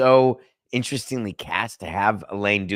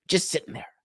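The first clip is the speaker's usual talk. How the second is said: breathy unvoiced aside, slightly higher; amused whisper; 8 semitones higher, 6 dB quieter than usual. Host whispering about A-Rod's idle money, amused. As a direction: toss it off under your breath, amused.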